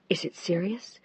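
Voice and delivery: hushed, breathless question; worried whisper. A narrator's reading. Wife whispering her fear to her husband. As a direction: whisper it, afraid of the answer. Wife asks about critical patient.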